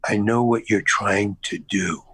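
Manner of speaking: low, slow lean-in; confidential director. Retold or imitated. Director leans in to confront his actor, low and knowing. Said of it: "he leans in and he goes".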